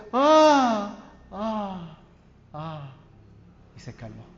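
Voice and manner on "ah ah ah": put-on baby's fading cries. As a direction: mimic a newborn calming down, cry by cry. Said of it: "Y Juan Andrés empezó". (llanto de bebé imitado que se apaga)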